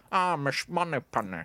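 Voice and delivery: mock stock Scottish lisp; lightly sent-up lisping spy; Sean Connery. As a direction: overdo the sh sounds like a bad impressionist. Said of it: "better than people who go".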